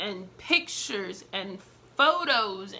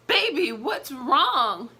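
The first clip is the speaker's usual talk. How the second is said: slow, louder, falsely sweet question; mock sweet concern; 3 semitones higher, 4 dB louder, much slower than usual. Mocking the cheating fiancé asking what's wrong, slow and sugary. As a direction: drag it out like a fake caring husband. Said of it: "this man had the nerve".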